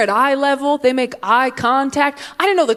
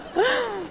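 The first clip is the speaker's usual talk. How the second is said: forced laugh; 12 semitones higher, 8 dB quieter than usual. Pretend. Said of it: "I've been practicing".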